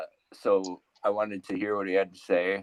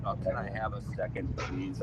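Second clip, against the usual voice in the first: weary; 2 semitones lower, 9 dB quieter than usual. Acted. Acts weary God home from work.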